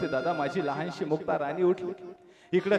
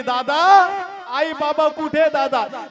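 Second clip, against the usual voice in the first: put-on a five-year-old crying out for her parents; little sister begging her elder brother, growing tearful; pleading little girl; 5 semitones higher, 5 dB louder than usual. Child begs Nivrutti for parents.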